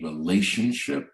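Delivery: RELATIONSHIP set off with a rising pitch; emphasis on relationship. Real, not acted. Banker stressing the value to restaurant owners, emphasis on RELATIONSHIP. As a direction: stress RELATIONSHIP, lifting the end before a short pause. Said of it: "I wanna emphasize the word relationship".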